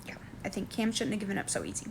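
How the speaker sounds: hushed fast aside; whisper. Real, not acted. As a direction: whisper it quickly to yourself.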